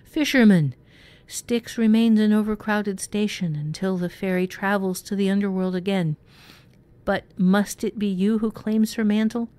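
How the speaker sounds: loud high booming creature. Acted. Monster demanding the fisherman's claim, loud booming. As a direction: boom it down from above. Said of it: "another voice boomed".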